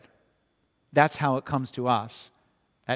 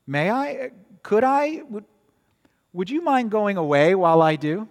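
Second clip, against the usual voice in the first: put-on higher, nervous girl's pleading voice; timid girl; 6 semitones higher, 5 dB louder than usual. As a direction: ask like a frightened girl hoping he'll leave. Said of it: "said Jill".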